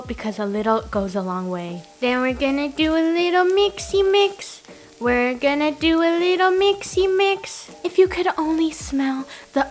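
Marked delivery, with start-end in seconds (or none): 2.0-4.6 louder, higher bouncy singsong; playful singsong. Pretend. Playful cooking phrase. 5.0-7.7 bouncy louder repeat, stress on mixy; playful singsong. Pretend.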